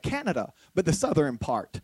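low, soft deadpan answer; deadpan joke. Retold or imitated. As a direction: drop it low and quiet, like a straight-faced joke.

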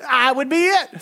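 normal talking voice

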